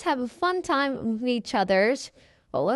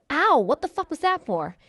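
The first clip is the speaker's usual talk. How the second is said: acted pain; 5 semitones higher than usual. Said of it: "slapped him on his face".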